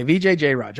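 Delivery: "V J Jairaj" practised with "Jai" before "raj"; corrected name pronunciation. Shown as a demonstration. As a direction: rehearse "V J Jairaj", ending on "raj" with no final "ee". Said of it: "tell me the exact right pronunciation".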